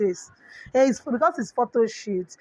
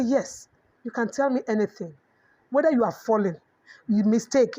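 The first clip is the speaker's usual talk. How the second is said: tender reassurance. Retold or imitated. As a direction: comfort a child who fears telling you. Mother reassures her child.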